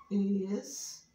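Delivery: "Estudo" in three pieces with long pauses; syllable by syllable. Shown as a demonstration. Teacher showing how many syllables, "Estudo" slowly split. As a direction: split "Estudo" as Es, tu, do, far apart. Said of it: "Quantas sílabas tem essa palavra?".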